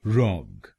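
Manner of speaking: रॉग said alone with an open o; syllable demo. Shown as a demonstration. Teacher models the stressed syllable: isolated syllable. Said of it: "बोलेंगे रॉग".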